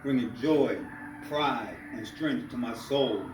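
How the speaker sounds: measured spoken-word delivery with pauses between phrases; spoken-word poem in rhythmic phrases; poetry recital. Acted. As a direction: perform the poem, lifting each refrain then letting the phrase fall. Reads his poem aloud.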